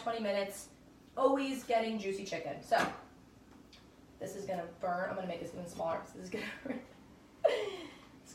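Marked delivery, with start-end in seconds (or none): 6.1-8.3 laughing. Real, not acted. Hot chicken piece burning her.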